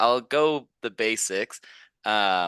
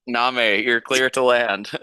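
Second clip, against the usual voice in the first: air traffic controller voice; 3 semitones higher, 5 dB louder, slower than usual. Pretend. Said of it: "You are so air traffic controller voice".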